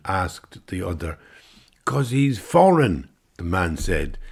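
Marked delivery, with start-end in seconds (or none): 1.8-3.1 dismissive sneer. Acted. Englishman sneers.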